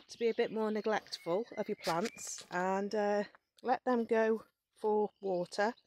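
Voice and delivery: slightly breathless, slow speech; talking while short of breath. Real, not acted. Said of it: "Sorry, I'm a bit out of breath".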